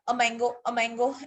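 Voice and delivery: अ मैंगो with an "a" before the m; wrong added vowel. Shown as a demonstration. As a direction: put a vowel in front of मैंगो, as "a-mango". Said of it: "ऐसे तो नहीं बोलते हम".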